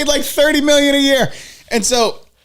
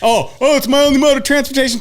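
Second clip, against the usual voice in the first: mock whiny biker; faster than usual. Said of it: "mocking motorcyclists".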